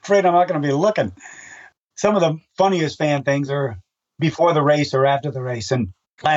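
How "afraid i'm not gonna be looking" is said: mock panic. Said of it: "I'm going, "Oh my God".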